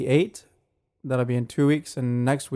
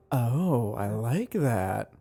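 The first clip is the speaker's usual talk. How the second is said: savoring approval; 3 semitones lower, 5 dB quieter, much slower than usual. Retold or imitated. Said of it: "It's more like".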